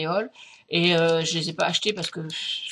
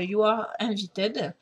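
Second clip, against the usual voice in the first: French-accented English; much slower than usual. Real, not acted. Crafter reading a stamp's English wording aloud, French accent. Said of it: "pardon pour mon accent anglais qui n'est pas terrible".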